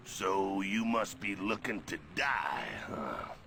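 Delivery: menacing threat. Acted. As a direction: dare him to try it. Juggernaut threatens Iceman.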